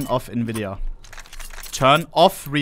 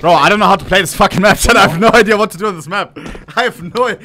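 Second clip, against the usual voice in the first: frustrated rant; 6 semitones higher, 7 dB louder, faster than usual. Real, not acted. Frustrated streamer complaining to chat.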